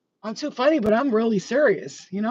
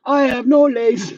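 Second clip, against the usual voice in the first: put-on quoting Kids; 5 semitones higher, 8 dB louder, slower than usual. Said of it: "the movie Kids".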